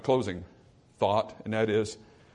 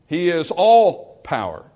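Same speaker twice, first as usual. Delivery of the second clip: emphatic; 5 dB louder, slower than usual. Acted. Preacher's emphatic declaration.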